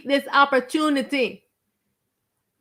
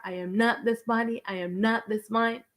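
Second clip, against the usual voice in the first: quiet mantra; 5 dB quieter than usual. Shown as a demonstration. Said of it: "You're driving your car".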